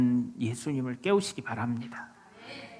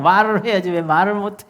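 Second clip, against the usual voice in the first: louder, higher exasperated demand; imitated angry scolding; 4 semitones higher, 6 dB louder than usual. Preacher imitates actor scolding a silent lover, angry scolding. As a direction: demand an answer like a drama lead. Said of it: "이러면서 막 화를 내잖아요".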